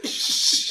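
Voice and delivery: long hissed shush; drawn-out "shh" to silence someone; imitated shush. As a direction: shush him sharply, half laughing. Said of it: "he goes".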